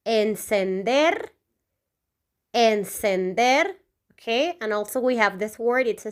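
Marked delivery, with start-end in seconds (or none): 0.1-1.3 slow model pronunciation. Shown as a demonstration. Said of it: "to turn on in Spanish is". 2.5-3.7 slow repeated pronunciation. Shown as a demonstration. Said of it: "to turn on in Spanish is".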